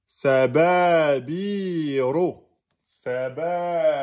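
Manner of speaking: "Sababiro" with a heavy, emphatic ro. Shown as a demonstration. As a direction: make the r of "Sababiro" thick and emphatic. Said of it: "vous le prononcez en emphatisant".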